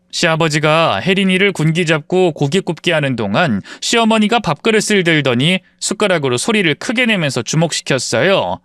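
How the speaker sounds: ordinary delivery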